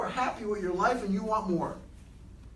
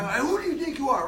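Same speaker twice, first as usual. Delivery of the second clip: mock road rage; 5 semitones higher, 6 dB louder than usual. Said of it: "You wanna try".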